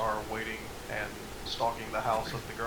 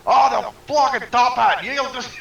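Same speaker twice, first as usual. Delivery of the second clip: excited; 12 semitones higher, 13 dB louder, slower than usual. Real, not acted. Laughing over the turtle bit.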